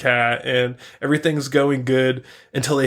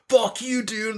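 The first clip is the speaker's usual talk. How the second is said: mock indignation; 8 semitones higher, 3 dB quieter than usual. Gym bros rebuff the cat.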